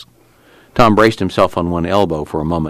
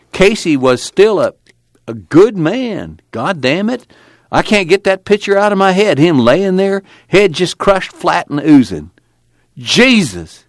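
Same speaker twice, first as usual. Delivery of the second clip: high, loud, strained grief breaking through; can't shake the horror, voice cracking upward; anguished; 12 semitones higher, 4 dB louder than usual. A narrator's reading. Tom haunted by the killing.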